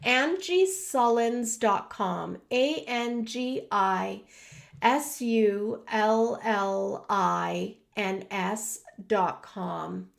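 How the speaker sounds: slow, measured spelling-out; reading out loud. Real, not acted. Reading a web address out loud to viewers, slowly and carefully. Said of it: "let me read it out loud".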